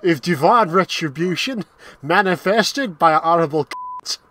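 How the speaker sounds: mock film gangster laughing through it; Bricktop Cockney. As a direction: quote Bricktop in a bad Cockney. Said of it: "Oh, just go".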